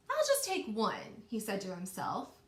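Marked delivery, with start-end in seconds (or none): 0.1-1.2 high little mouse voice. Acted. Teacher voicing the mouse for her class, high and sly. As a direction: squeak it like a tempted mouse. Mouse's greedy thought in story.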